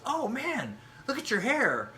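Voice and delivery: high, loud mock gush; mock admirer. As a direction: imitate a stranger gawking.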